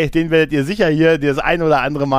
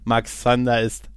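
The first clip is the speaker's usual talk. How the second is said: dramatic announcer voice; 3 semitones lower, much slower than usual. Retold or imitated. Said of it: "wenn er am Ende sagt".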